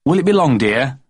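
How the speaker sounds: high, lightly voiced Daddy; a boy imitating his dad; child copying Daddy. Jeremy James copying Daddy at the doorpost, lightly mock. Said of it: "as Daddy always ended up by saying".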